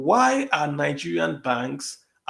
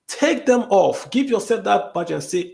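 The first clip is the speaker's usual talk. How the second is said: forceful demand; 3 semitones higher, 3 dB louder than usual. Real, not acted. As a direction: hammer home the order, measured and firm. Impassioned demand to banks.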